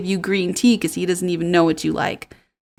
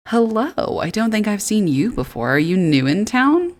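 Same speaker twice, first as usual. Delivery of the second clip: curious shopkeeper; 4 semitones higher than usual. Acted.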